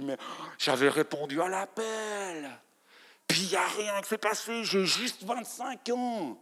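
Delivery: lightly acted despair with gasps; mock despair. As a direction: sigh out a young believer's lost hopes. Voicing a despairing failed believer. (désespoir joué légèrement, avec halètements)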